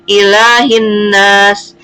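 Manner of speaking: slow "ilahin nas", the lam melted into a held n; merged lam. Shown as a demonstration. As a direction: recite "ilahin nas" drawn out with a doubled n and no l before nas. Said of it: "tidak jelas atau dilebur atau diidghamkan".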